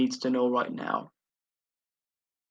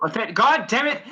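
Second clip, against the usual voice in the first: surprised curse; 7 semitones higher than usual. Real, not acted. Realizing Thaddeus missing.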